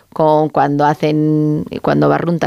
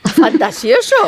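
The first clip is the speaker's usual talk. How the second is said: startled echo, breaking into a laugh; amused surprise; 3 semitones higher than usual. Real, not acted. Co-host reacting to an odd new word, amused surprise. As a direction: repeat it in laughing disbelief.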